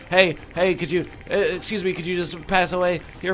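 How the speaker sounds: nasal-sounding nerd voice, congested. Acted. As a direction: put on a nerdy polite voice. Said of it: "pretend to be using my nerd voice".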